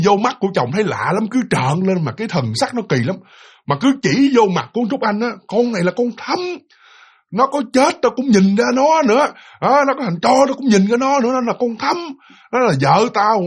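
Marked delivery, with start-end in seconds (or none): 5.5-13.4 higher-pitched retold accusation; angry cursing. Possessed man pointing at the woman's face, angry cursing. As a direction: imitate a furious husband's accusing rant. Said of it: "Mà chửi kiểu đó".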